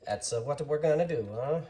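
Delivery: a badly faked, lightly voiced Italian accent; terrible fake Italian accent. Maker joking at the drill press, fake Italian accent. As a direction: toss it off in a hammy Italian accent. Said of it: "It's a terrible fake Italian accent".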